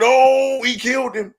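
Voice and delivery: mock scream, pitched high; reliving the shock in a high yell; high excited cry of shock; retold scream. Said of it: "I screamed".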